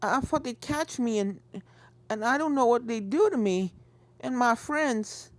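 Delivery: shaky after the scare; tearful filly. Acted. Apple Bloom to the stallion, tearful and shaken.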